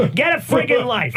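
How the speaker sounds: angry shout. Acted. Angry rant montage.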